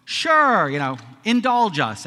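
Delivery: high, drawn-out mock eagerness; mock indulgence. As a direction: humor him with an exaggerated "sure". Teens humoring the pausing speaker.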